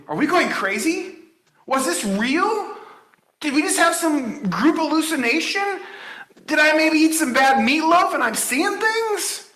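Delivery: women at the tomb second-guessing, a hint of panic; anxious women's thoughts. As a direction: play the panicked witnesses doubting themselves. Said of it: "Maybe they thought".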